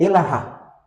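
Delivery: "Elahá" said slowly, each syllable e-la-HÁ spelled out, stress on the last; slow teaching demo. Shown as a demonstration. Teacher showing the class how to say "Elahá", slow and clear. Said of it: "Isso em aramaico".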